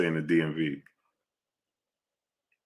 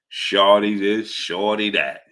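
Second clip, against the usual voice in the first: put-on Baltimore accent; slower than usual. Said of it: "The Baltimore accent".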